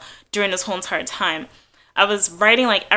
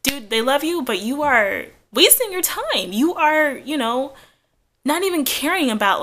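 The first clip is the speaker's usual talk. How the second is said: scolding her past self; 5 semitones higher than usual. Retold or imitated.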